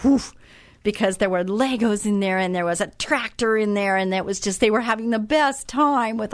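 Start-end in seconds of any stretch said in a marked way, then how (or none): 0.0-0.3 put-on kids' excited whoop. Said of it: "the boys, just went".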